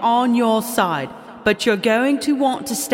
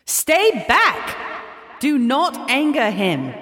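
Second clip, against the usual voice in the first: high, urgent shout; shouted warning; much slower than usual. A narrator's reading. Cog shouting at Maeve to stay back. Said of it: "shouted at Maeve".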